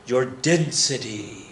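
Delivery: slow, stretched-out joke line; mock-weighty movie line, slowly; drawn-out movie quote. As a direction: draw the words right out.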